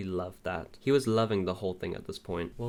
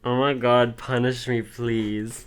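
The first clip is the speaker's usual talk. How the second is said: loud, giddy flustered cry; excited squeal; 3 semitones higher, 8 dB louder, slower than usual. Real, not acted. Squealing reaction to flirty line.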